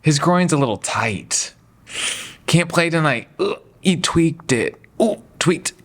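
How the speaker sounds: whiny mock injury report, ooh-ing over it; mock a player babying a tweak; mocking sore groin report. Player complaining about a tight groin, whiny mock.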